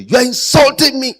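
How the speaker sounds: mock offended. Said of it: "change the whole story".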